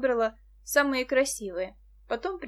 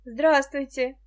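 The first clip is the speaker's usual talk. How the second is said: welcoming hello, voice a little raised; friendly greeting; 3 semitones higher, 7 dB louder, slower than usual. A narrator's reading. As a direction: greet a visitor kindly. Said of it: "приветливо сказала она". (приветливо)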